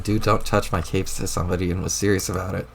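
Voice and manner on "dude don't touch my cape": sheepish self-quote; quoting himself in disbelief. Retold or imitated. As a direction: replay your own line like it's ridiculous. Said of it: "I can't believe I seriously just said".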